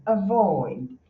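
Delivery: "avoid" with the A as a tiny puff before "void"; sigh-like schwa. Shown as a demonstration. Teacher repeats it for students, sigh-like schwa. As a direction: slip lightly over the A of "avoid" into a long "void". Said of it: "É só um suspirinho".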